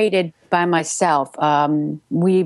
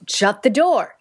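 insistent higher-pitched order; acted repeated command; 5 semitones higher, slower than usual. Shown as a demonstration. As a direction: play the order in a dramatized exchange. Demo of acted dialogue exchange.

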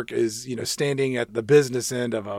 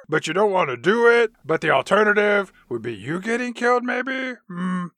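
higher, mock-friendly orc cop; Nick the Orc voice; 3 semitones higher than usual. Orc cop teasing his partner, higher prodding voice. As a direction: prod your partner with fake concern.

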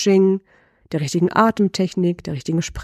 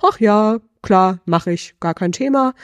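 breezy nonchalance; 2 semitones higher than usual. Pretend. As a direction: toss it off like a stroll in the park. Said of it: "Wie geht's dir da?".

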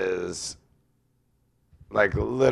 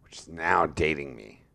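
whispering; 4 semitones lower, 7 dB quieter than usual. Real, not acted. Aside about his age.

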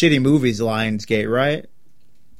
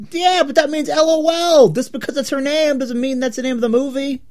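raised voice; 11 semitones higher than usual. Real, not acted. Heated argument over movie title.

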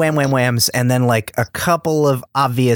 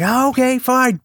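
high, offhand mock Natasha; a breezy, much higher shrug; unbothered; 12 semitones higher than usual. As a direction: toss it off like it's nothing. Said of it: "She's just like".

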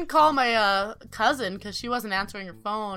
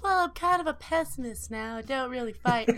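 lightly voiced innocent, softer; little innocent; 5 dB quieter than usual. Recalling herself at the show's start, mock innocent. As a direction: play it meek and innocent, a touch softer. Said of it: "me being that little innocent".

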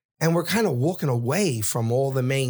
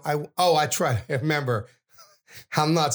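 normal talking voice

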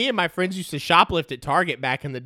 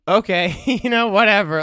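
laughing, higher and louder, brushing it aside; 6 semitones higher, 7 dB louder than usual. Real, not acted. Podcaster mocking the tabloid headline, laughing. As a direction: laugh and wave it away.

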